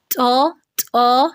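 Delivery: تو drawn out slowly with an h puff; wrong breathy take. Shown as a demonstration. Teacher showing how not to say it. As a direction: stretch تو with the h sound. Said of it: "اس طرح پڑھنا غلط ہے".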